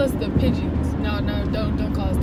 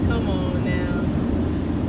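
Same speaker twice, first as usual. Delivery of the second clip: drawn out come on now; 6 semitones lower, much slower than usual. Acted. Drawn-out complaint in traffic.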